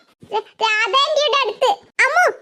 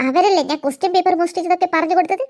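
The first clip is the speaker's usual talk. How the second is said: angry ranting; 4 semitones lower than usual. Acted. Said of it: "സോഫി, നീ ഇങ്ങനെ ചൂടാവല്ല".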